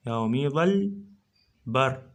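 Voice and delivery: drawn out, syllable by syllable; slow syllable reading. Shown as a demonstration. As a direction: stretch each syllable for the students. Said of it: "من عرفته من اللفظ". (قراءة ممدودة مقطعًا مقطعًا)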